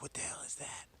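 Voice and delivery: hushed, half-whispered disbelief; quiet retold "what on earth"; retold astonishment. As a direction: quote your own baffled reaction softly. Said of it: "I was like".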